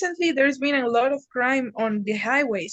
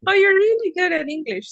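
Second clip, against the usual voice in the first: teacher voiced; 8 semitones higher, 4 dB louder than usual. Teacher's advice voiced in a story.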